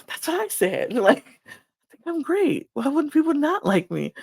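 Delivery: high-pitched, playful mock boasting; unserious Janae. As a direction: imitate a jokingly self-assured woman, voice lifted high. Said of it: "she's so unserious".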